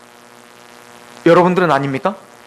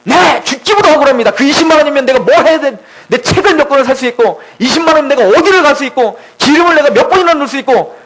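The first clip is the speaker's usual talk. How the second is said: aggrieved; 3 semitones higher than usual. Acted. Preacher answering God about lost money, acted grievance. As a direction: pile up complaints in acted indignation. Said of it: "그렇게 억울하냐".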